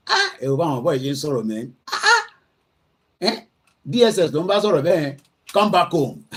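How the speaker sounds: fast, high, loud delighted exclaiming; laughing, thrilled outburst in Yoruba; excited laughing. Real, not acted. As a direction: crow with laughing delight at the clip. Delighted by bold critics' clip.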